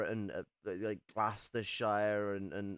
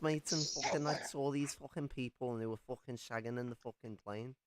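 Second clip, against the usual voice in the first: hammed-up Australian accent, pitched way up; mock Aussie owl; 4 semitones higher than usual. Joking about the owls, a mock Australian owl voice.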